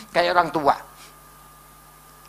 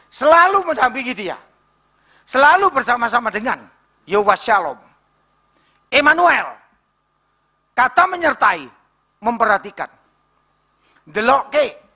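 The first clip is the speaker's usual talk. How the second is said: ordinary talk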